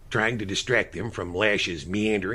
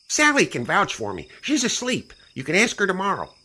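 smug Stanley voice; 10 semitones higher, 3 dB louder than usual. Acted.

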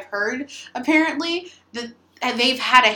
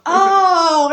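exaggerated fake oh of understanding; mock realization; 7 semitones higher, 8 dB louder than usual. Pretending to understand her friend across the room, loud fake oh. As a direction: pretend to suddenly get it, loud. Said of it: "I would go".

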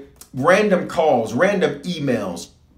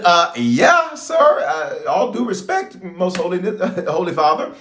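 hammed-up timid stammer, higher; a hint of a nervous son answering God; mock nervous reply to God; 6 semitones higher than usual. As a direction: act sheepish, stammering to the Lord. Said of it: "I said".

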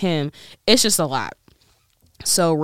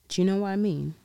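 shaky attempt at British slang in accent; 3 semitones higher, faster than usual. Shown as a demonstration. Podcaster trying out British slang for listeners, British accent. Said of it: "I can't say it like that".

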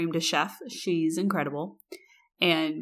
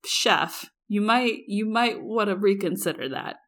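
pointed suggestion; 3 semitones higher than usual. Retold or imitated. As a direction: needle the waitress politely. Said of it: "And I went".

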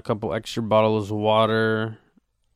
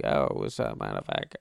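much lower, tough-guy hello; low mock macho greeting; deep bro greeting; 13 semitones lower, 3 dB quieter than usual. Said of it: "go up to that person and be like".

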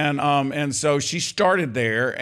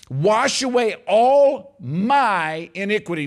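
slow, louder psalm read with weight; fervent slow reading; 4 semitones higher, 5 dB louder, slower than usual. Acted. Preacher reading the psalm to his church, slow and fervent. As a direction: draw each word out like a prayer.

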